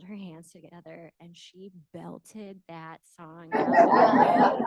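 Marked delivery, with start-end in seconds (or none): 1.9-4.6 laughing. Real, not acted. Proud parent retelling daughter's singing.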